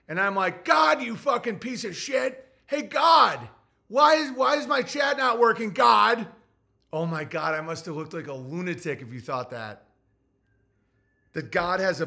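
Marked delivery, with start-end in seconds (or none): 0.6-6.3 high, louder hammed-up yelling at God; mock yell at chat. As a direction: bark it at the chat in fake rage. Imitating himself yelling at chat.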